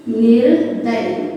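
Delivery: निर्दय said slowly; slow correct word. Shown as a demonstration. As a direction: stretch निर्दय clearly. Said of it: "शुद्ध रूप होता है निर्दय". (निर्दय धीरे से)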